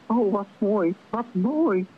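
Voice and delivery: tearful mother's admiration, gently acted; moved stammer. A narrator's reading. Moeder geroerd door het lied van de zanger, ontroerd gestameld.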